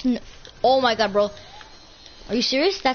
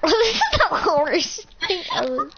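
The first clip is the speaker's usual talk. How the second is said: laughing; 5 semitones higher than usual. Real, not acted. Laughing at the game.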